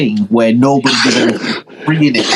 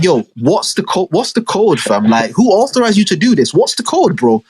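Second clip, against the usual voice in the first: higher, demanding voice of a bank worker on the phone; mock bank caller; 5 semitones higher than usual. Mocking the bank guy calling about the money, higher demanding voice. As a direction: imitate the suspicious guy on the phone. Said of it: "The guy's gonna be on the phone like".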